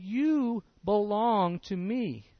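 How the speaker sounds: slow, tender reassurance; a slow, gentle promise. Acted. Jesus welcoming a sinner at the table, slow and tender.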